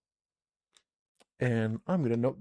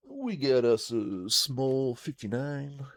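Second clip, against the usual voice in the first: mock hick drawl; slower than usual.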